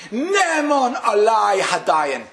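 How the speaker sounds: slow, loud declaration of acceptance; crying out. Retold or imitated. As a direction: call it out slowly to the heavens. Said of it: "And he screamed".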